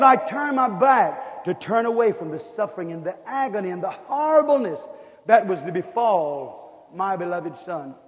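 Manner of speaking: hushed divine grief; grieving God. Acted. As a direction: let it sink in sorrow. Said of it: "he said".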